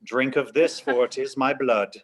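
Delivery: measured, mildly solemn liturgical delivery; Jesus. Acted. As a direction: intone it lightly like scripture. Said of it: "He's just like".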